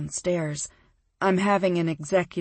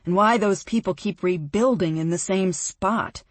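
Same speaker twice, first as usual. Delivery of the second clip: disgusted; 3 semitones lower than usual. Acted. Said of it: "he says disgustedly".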